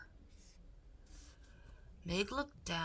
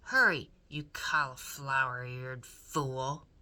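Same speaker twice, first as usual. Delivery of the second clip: loud, lower angry bark; Cook shouting; 4 semitones lower, 6 dB louder than usual. A narrator's reading. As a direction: bark the insult. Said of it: "shouted Cook".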